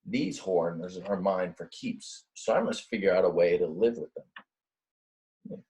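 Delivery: slow, resigned little ram; the ram accepts his horns with a slow sigh. Acted. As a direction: sigh it out slowly, giving up. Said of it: "he sighed".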